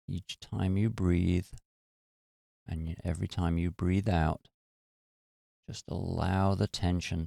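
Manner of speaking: unhurried meditation guide with long pauses; guided meditation. Real, not acted. Teacher leading listeners to relax their muscles, calm guided meditation. Leads a body-scan meditation.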